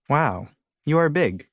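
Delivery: slow, lifted awe; awed. A narrator's reading. Alien looking up at the huge bear, awed. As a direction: marvel with drawn-out words.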